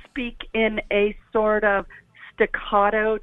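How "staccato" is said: choppy staccato. Shown as a demonstration. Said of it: "kind of like what I'm doing right now".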